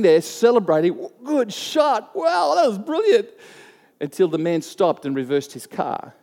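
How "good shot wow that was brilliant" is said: put-on high, gleeful kid cheering; excited celebration. Boys cheering their dart hitting a passing car, excited. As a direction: cheer the lucky shot like an eight-year-old.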